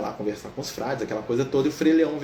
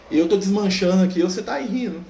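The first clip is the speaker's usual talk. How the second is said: higher and louder, accusing the carer; leper's bitter outburst; 5 semitones higher, 5 dB louder than usual. Retold or imitated. Leper protesting to Francis that he is falling apart, raised and bitter. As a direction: cry out your pain at the smiling man. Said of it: "o leproso jogou na cara dele".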